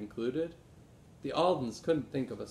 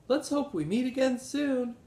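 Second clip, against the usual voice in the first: Skye saying goodbye; 11 semitones higher, 5 dB louder than usual. Acted. Skye's parting words to the Aldens.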